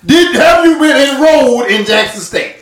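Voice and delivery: cross-examining a dodging friend; pressing interrogation. Real, not acted. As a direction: demand a straight answer.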